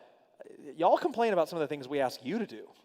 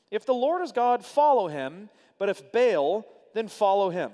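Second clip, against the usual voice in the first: raised, ringing call to choose; forceful challenge; 5 semitones higher, 6 dB louder than usual. Acted. Elijah calls the wavering people to choose, loud. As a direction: challenge the crowd loud and high.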